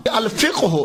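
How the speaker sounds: الفقہ stressed as "al-FIQ-hu"; careful "al-fiq-hu" for الفقہ ہو; correct Arabic pronunciation. Shown as a demonstration. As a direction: lean on "fiq" in الفقہ, then release "hu". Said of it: "اسے بولتے ہیں".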